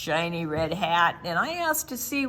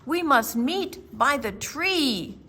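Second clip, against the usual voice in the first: louder, firm guiding call; a child taking charge, louder; urgent lead; 4 semitones higher, 5 dB louder than usual. Acted. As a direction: call the dragon to follow you out. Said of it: "I crept down the hallway and said".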